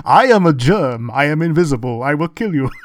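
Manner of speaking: slowed, menacing little germ line; quoting a tiny sinister germ; cute germ voice. Retold or imitated. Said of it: "The only thing I remember from that fucking movie".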